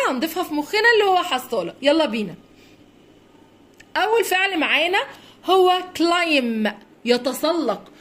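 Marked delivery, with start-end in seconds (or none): 6.0-6.7 كلايم drawn out, ending on m; silent B. Shown as a demonstration. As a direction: say كلايم slowly with no b at the end. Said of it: "البي هنا سايلنت مش بننطقها".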